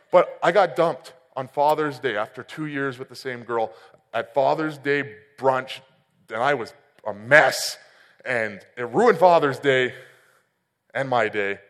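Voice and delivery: ordinary talk, nothing marked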